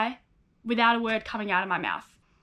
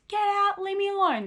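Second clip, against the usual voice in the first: high, imitated scream of a teenager in meltdown; mock scream; 8 semitones higher than usual. Teenager screaming at parents to leave, mock yell. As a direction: yell it as the upset girl, without real volume. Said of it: "all that I would scream at them is".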